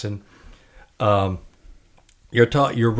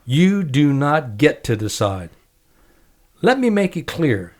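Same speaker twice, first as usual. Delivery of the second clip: measured book reading with acted quotes; reading aloud; 2 semitones higher than usual. Host reads guest's memoir aloud on air, quoting lightly. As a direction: read the memoir passage to the guest, lightly voicing each speaker.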